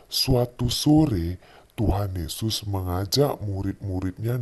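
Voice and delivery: put-on gentle storytelling voice for a child; bedtime story narration. Father tells Bible story at bedtime.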